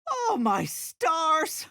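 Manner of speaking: high drawn-out oh my stars; high astonished exclamation; slow high gasp of shock. Acted. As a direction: clutch your pearls.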